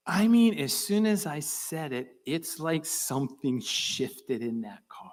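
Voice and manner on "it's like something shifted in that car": hushed, slow wonder; awed whisper. Real, not acted. Speaker recalling the shift, whispering in awe.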